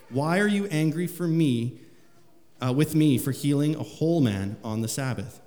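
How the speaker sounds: preacher reading the Gospel aloud to the church; scripture reading. Acted. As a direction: proclaim the passage to the congregation.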